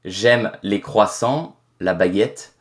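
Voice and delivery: slow, measured native French; French spoken with a native accent. Shown as a demonstration. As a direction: switch into French to show you're French. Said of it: "I am hundred percent French".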